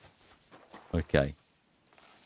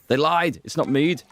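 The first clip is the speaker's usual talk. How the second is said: hammed-up indignant cry, higher; mock outrage; 7 semitones higher than usual. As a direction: play it as a fake betrayal.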